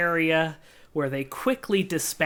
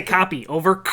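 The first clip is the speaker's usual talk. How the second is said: louder radio sign-off with a crackle; radio call; 2 semitones higher, 5 dB louder than usual. Shown as a demonstration. Game master showing how to answer by radio, clicking off. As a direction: say it like a walkie-talkie call. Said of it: "You have to say".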